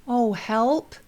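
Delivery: calm modeling. Shown as a demonstration. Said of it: "I would model calmly".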